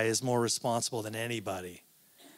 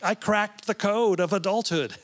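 a hint of a know-it-all teen, pitched higher and louder; lightly mocking teenage voice; smug teenager; 7 semitones higher, 4 dB louder than usual. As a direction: play the cynical teenager who has figured it all out. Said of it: "you're like".

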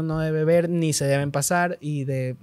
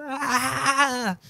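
a higher, retold wail of disbelief; mock anguished cry; 6 semitones higher than usual. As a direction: let out a stunned half-cry. (grito de dolor imitado, sin llegar a gritar fuerte)

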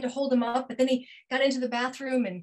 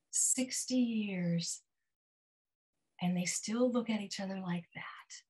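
whispered; 3 semitones lower, 7 dB quieter than usual. A narrator's reading. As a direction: breathe the last words tenderly. Tender closing of love story.

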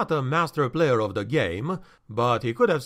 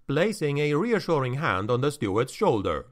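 usual speaking voice

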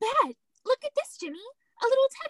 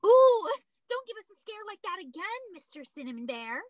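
mock fear; 5 dB louder than usual. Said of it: "let's pretend we're really afraid of him".

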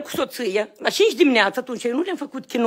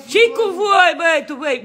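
angry challenge; 3 semitones higher than usual. Real, not acted. Man to officers in his house, angry challenge. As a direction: challenge them in disbelief.

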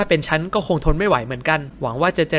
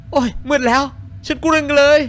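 put-on scared girl voice; 11 semitones higher, 4 dB louder than usual.

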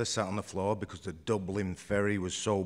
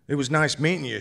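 higher, louder polite farewell; polite but hurt; awkward goodbye; 5 semitones higher, 6 dB louder, faster than usual. A narrator's reading. Awkward farewell after kiss.

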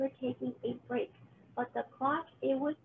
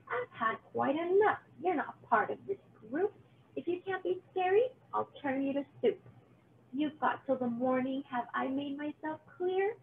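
threatening witch; 2 semitones higher than usual. Acted. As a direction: threaten to turn him to soup.

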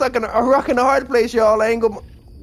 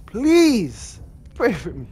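even slower, stretched plea; slower pleading; slower than usual. Shown as a demonstration. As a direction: drag out every word, begging.

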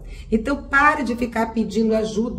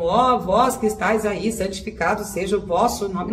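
mock prayer. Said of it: "fiquem tratando a pessoa lá, sabe, como".

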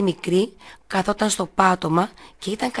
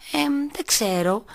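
muttered; 8 semitones higher, slower than usual. A narrator's reading. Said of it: "μουρμούρισε η Κατερίνα".

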